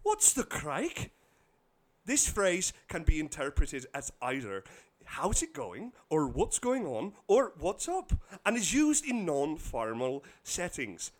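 reading in a put-on Irish accent; attempted Irish dialect. Shown as a demonstration. Host teaching Irish phrases, attempted Irish accent. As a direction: do your best light Irish brogue. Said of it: "gonna do this tip in, in as, as best of a Irish dialect".

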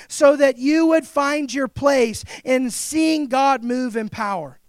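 shouted sermon climax; preaching shout. Real, not acted. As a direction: proclaim it with full force to the crowd.

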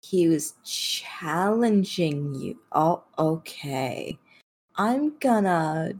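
slow, drawn-out, quiet disbelief; skeptical echo. Acted. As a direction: repeat it back slowly, weighing every word. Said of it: "gives you a long look and goes".

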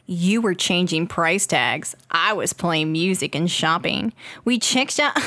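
low, slow creep reading aloud; creepy poster voice. Acted. Host reads a Walgreens missed connection, creepy low voice. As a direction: read it like a lurking admirer. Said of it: "I don't know why I'm doing it in this voice".

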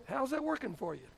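pointed, hushed challenge in a borrowed catchphrase; Doctor Phil. Acted. Pastor challenges the disobedient with a catchphrase, soft mock counselor. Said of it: "a Doctor Phil thing".

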